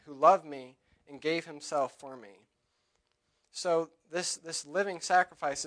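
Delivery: loud, ringing scripture reading from the pulpit; preaching at full force. Acted. Preacher to his church reading Romans and Galatians, loud preaching. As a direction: proclaim each verse to the whole congregation.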